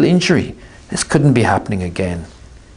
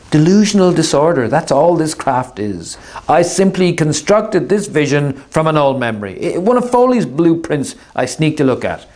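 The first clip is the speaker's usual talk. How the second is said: Artemis's voice; 5 semitones higher than usual. Acted. Artemis calmly deluded.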